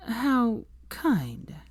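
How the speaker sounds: a cold society lady's reply; cool haughty lady. A narrator's reading. Narcissa voiced.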